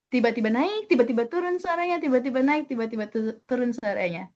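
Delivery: "naik" lifted, "turun suaranya" dropping; lively up-and-down tune; rising and falling intonation. Shown as a demonstration. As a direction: let the pitch jump up on "naik" and sink on "turun". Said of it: "Seperti itulah intonasi".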